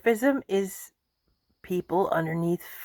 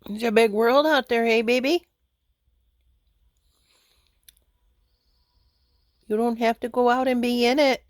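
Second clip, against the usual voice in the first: higher-pitched coaxing to a pet; pet talk; 5 semitones higher than usual. Real, not acted. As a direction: coax a little animal to stay close. Sweet-talking a pet.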